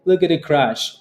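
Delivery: high, anxious whining voice; panicky trader. Retold or imitated. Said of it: "your emotions, like".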